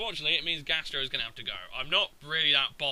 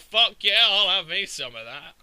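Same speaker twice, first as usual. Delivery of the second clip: louder, higher burst of mock eagerness; eager mock cheer; 3 semitones higher, 6 dB louder than usual. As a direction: voice a creature jumping at the chance. Voicing eager opponent's Pokémon.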